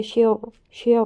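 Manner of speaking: شیر said with a thick, heavy ر, the wrong way. Shown as a demonstration. Teacher showing students the wrong heavy ر. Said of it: "اگر ہم نے اس کو موٹا پڑھنا تھا".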